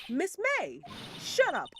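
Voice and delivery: angry shout. Acted. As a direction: snap it out loud and high as a furious witness. Witness snaps at the court.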